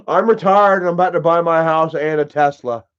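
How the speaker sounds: lightly voiced smug braggart; a hint of a smug, boastful Isaac; mocking Isaac's boast. Streamer mocks a rival's boast, lightly smug voice. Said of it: "watch him the other day talk about".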